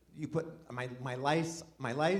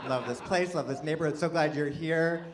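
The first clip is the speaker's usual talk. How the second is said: usual speaking voice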